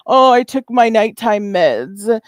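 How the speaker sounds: lightly mocking, drawn-out retelling; mock quote of rival. Streamer throws rival's excuse back at her, mildly mocking. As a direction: slowly mimic her excuse, a touch mocking. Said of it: "you said".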